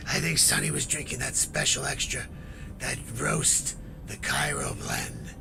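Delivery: low hushed voice. Acted. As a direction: keep it hushed and secretive. Hushed vlog, hiding.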